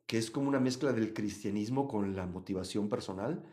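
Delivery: usual speaking voice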